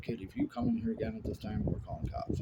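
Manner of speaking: high warning from the clerk; a lightly mocked stern clerk; imitating the clerk. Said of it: "they're like".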